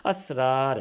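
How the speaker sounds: "اسرار" as as-rār, stopping on the final r; careful pronunciation. Shown as a demonstration. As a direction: say "اسرار" with short a, long ā, closed r. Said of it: "رے پر رکیں گے".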